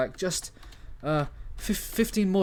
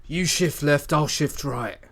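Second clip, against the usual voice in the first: the corrected line "You shift left, I'll shift right.", loud and confident; louder in-character line; 3 dB louder, slower than usual. Acted. The hacker to his partner, now with the better wording, in full voice. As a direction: deliver the fixed line in character. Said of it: "that's more like it".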